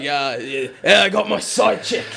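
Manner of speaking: lightly put-on English accent as the girl. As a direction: do the girlfriend with a hint of English accent. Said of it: "I turned her English".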